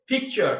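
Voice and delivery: "পিকচার" with a puffed p; aspirated P. Shown as a demonstration. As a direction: release the p of "পিকচার" on a burst of air. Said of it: "এইভাবে উচ্চারণ করতে হবে".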